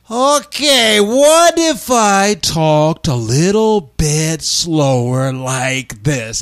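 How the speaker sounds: put-on very slow, easing out of the foreign accent; Borat. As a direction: start in character, slide slowly into your own voice. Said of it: "morphed from the Borat voice into my regular voice".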